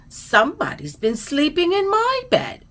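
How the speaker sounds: put-on high-pitched Baby Bear squeak; squeaky little bear. A narrator's reading. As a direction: squeak it up high like an upset cub. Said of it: "squeaked Baby Bear".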